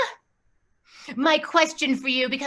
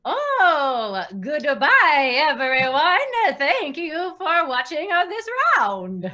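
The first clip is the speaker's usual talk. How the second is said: mock Swedish accent. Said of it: "can you say goodbye with your Swedish accent".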